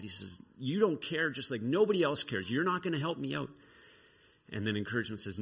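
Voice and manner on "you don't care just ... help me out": mildly hammed-up, higher-pitched accusation; upset outburst. Josiah loses it at Encouragement, upset. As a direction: protest with a touch of hurt anger. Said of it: "He gets so upset".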